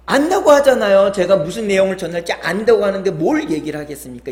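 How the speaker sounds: high, loud protest easing off; exasperated retort. Retold or imitated. Monk defends himself to the abbot, exasperated retort. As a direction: imitate a monk protesting his innocence.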